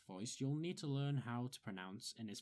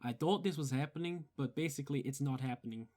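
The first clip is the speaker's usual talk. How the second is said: firmer, lip-heavy Bronx accent; demonstrated Bronx accent; 4 dB louder than usual. Shown as a demonstration. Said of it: "which becomes".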